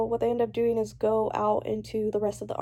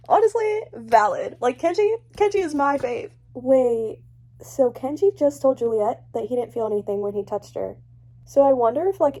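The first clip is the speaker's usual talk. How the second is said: excited cheering; 2 semitones higher, 6 dB louder than usual. Real, not acted. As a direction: cheer for her favourite. Cheering the punch.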